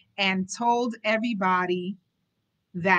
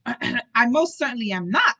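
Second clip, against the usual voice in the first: louder, indignant exclaim; 3 semitones higher, 6 dB louder than usual. Acted. Simon telling the butler he lives, loud exclaim. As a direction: protest hotly. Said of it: "Simon exclaimed".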